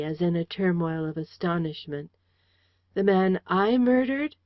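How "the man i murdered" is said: rising, stunned question; astonished. A narrator's reading. Man stunned at being called a murderer. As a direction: disbelief breaking through. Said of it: "he faltered out slowly".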